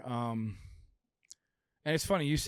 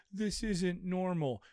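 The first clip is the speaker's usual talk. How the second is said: mocking protester; 4 semitones higher, slower than usual. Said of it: "Holding up a sign".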